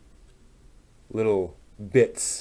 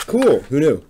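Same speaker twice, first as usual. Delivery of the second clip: a much higher, louder burst of glee; light up at the unexpected success; delighted surprise; 6 semitones higher, 8 dB louder than usual. Real, not acted. Maker tells the viewers the fix worked, delighted and surprised.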